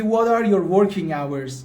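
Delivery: slow, careful English question; slow model question. Shown as a demonstration. Teacher modelling a shop question slowly.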